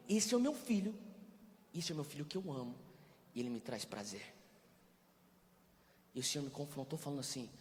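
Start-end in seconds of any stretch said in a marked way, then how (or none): 0.1-4.3 softening, gentle declaration; tender fatherly voice. Acted. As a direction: say it like a loving father to his son. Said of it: "O pai fala o quê?".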